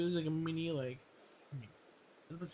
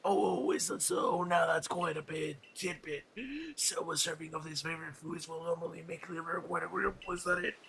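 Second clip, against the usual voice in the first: voicing a game character; 3 dB louder than usual. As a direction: draw out "Oh" like a curious old gentleman. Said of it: "let me voice that".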